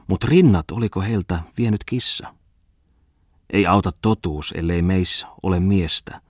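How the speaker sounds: declaiming a mock-solemn poem, lingering on lines; poem recital. Poet reads his camel poem aloud to the editor, declaiming. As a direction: recite it like a proud poet showing off verse.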